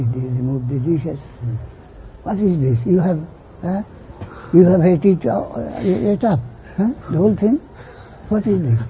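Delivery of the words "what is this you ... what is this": mother scolding. Retold or imitated. Mother scolds child over dishes.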